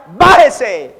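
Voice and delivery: loud shouted bájese. Retold or imitated. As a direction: yell it as the world at the church. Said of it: "Y a gritos". (grito fuerte, como el mundo a la iglesia)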